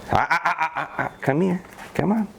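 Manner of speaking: high encouraging dog call. Real, not acted. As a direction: lift the voice high to call her. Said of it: "So you heard that tone go up".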